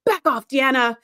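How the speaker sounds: mock-intense command, slowing down on the final words; strong, intense order. Riker snapping back at Deanna, imitated intensity. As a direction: imitate a forceful brush-off. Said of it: "how strongly he said that".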